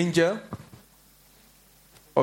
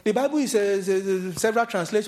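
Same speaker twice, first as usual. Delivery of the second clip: mocking the Muslim debater; 6 semitones higher than usual. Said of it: "It was like".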